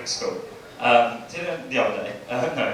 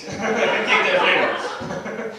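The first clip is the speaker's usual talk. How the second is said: slow, laughing through the words; laughing repeat; 4 semitones higher, 4 dB louder, much slower than usual. Real, not acted. Comic repeating his own question to the crowd, laughing. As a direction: savour it while laughing.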